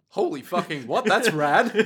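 amazed exclamation breaking into a laugh. Acted. Prosciutto reacting to a punch, amazed. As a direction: blurt it in mock awe. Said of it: "Prosciutto's all like".

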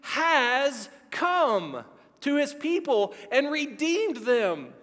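slow and reverent, a hint of awe; slow reverent proclamation. Zechariah proclaiming to the people, slow and reverent. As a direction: lean into each word, certain and hushed. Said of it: "Listen to how he says it".

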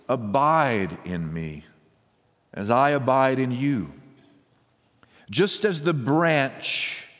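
measured, unhurried Bible reading from the pulpit; solemn reading of Jesus' words to his disciples; scripture reading. Acted. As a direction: read the passage with weight, stretching key words. Reads John 15 aloud.

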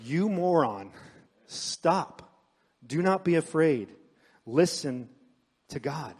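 controlled, acted scolding in separate commands; mad rebuke. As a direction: rebuke them firmly, pausing between each order. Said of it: "He's rebuking them and he's mad".

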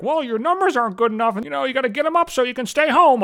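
high, snotty mock of a manager's pep talk; a hammed-up corporate scold; mocking the bosses. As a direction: parrot the boss in a prissy, condescending voice. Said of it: "and they're like".

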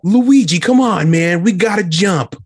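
Mario voice. Pretend. Voicing Mario in a bit.

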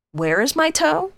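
slow, high-pitched eerie groan; groaning creature. A narrator's reading. Creature at the bedside asking for its toe, high slow groan. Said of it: "the voice groaned".

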